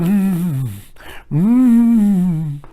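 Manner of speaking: mock glum, drawn-out hum; Rachel Maddow. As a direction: imitate a deflated anchor's wordless moan. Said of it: "she started to look glum".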